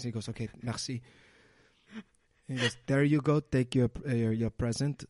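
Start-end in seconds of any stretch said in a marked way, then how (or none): 0.3-1.0 French Canadian clown saying thanks; lightly mimicked French Canadian; imitated French Canadian accent. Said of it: "with his French Canadian accent". 2.9-5.0 louder, lightly put-on French Canadian voice; hint of French Canadian accent; imitated French Canadian accent. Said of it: "with his French Canadian accent".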